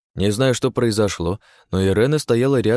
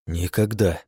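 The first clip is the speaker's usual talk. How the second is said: same flat deadpan refusal; monotone; slower than usual. A narrator's reading. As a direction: repeat it flat and final. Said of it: "монотонно ответил я".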